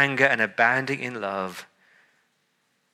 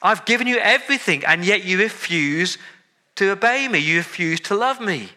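angry God rejecting; 4 semitones higher than usual. Retold or imitated. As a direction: voice God snapping in fed-up anger. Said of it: "we expect God to say".

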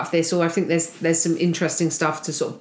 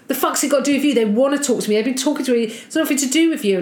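higher, mock aggressive snapping back; angry rant; 5 semitones higher, faster than usual. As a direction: retell his rage with heat. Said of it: "narcissistic rage".

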